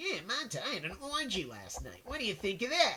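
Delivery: irritating high-pitched voice with annoying swooping pitch. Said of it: "he had a very irritating voice".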